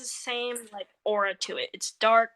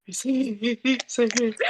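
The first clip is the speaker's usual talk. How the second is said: laughing through the words; cracking up mid-sentence; maniacal laughter; 4 semitones higher, slower than usual. Real, not acted. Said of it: "don't laugh maniacally".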